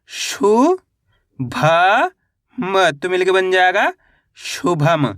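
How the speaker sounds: शु, भ, म each apart with pauses, then शुभम blended; syllable-by-syllable spelling. Shown as a demonstration. Teacher showing beginners how to read शुभम, syllable by syllable. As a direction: sound out शुभम one held syllable at a time. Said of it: "एक एक अक्षर का उच्चारण करके".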